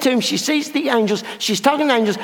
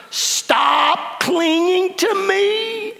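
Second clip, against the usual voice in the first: slow, gentle plea; 9 semitones higher, much slower than usual. Acted. Jesus tells Mary to let go.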